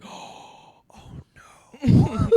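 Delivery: whispered oh, then a very high, loud squeal of no; hammed-up dread; panicked oh no. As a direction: squeal in mock horror at being caught. Sees girlfriend staring at him.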